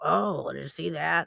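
rough, creaky, rasping busybody voice. Mimicking a negative type of person, in a Large Marge voice. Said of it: "why did I go into like a large Marge voice".

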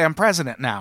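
plain

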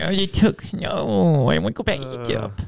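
high, whiny, complaining put-on voice. Voicing the Israelites complaining to God: whining voice. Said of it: "this whining voice in the background".

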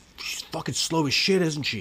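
mock exasperated, nearly yelling. Retelling a gambler complaining about the dealer: imitating a man about to yell. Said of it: "borderline about to yell at her".

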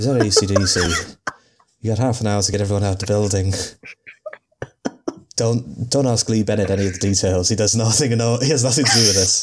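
put-on Irish accent. Acting out the prank phone call he jokes about making, in an Irish accent. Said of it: "I'll just call in a bomb threat in an Irish accent".

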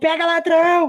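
put-on old lady shouting.

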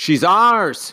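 indignant, outraged tone. Reading a story where a child objects to adopting a baby: outraged tone. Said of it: "in an outraged tone".

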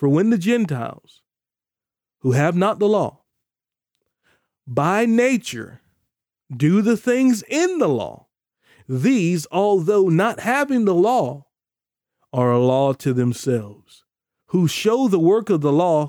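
very slow, unhurried, deliberate reading aloud. Reading a scripture passage aloud to listeners, the speaker reads it very slowly. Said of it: "I'm going to read this really slowly".

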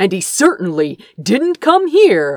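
plain reading voice

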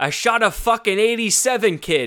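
put-on Boston accent. Retelling a golf partner's answer about his score, imitating John's Boston accent. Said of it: "Most Boston shit I've ever heard".

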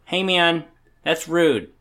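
laid-back hippie man voice. Joking about a rival team's fans, the speaker answers back in a hippie man voice. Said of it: "That's my hippie man voice".

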